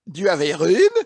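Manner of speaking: put-on Clouseau's French accent asking for a room. Clouseau asks the hotel clerk for a room, mock French accent. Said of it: "This is Inspector Clouseau".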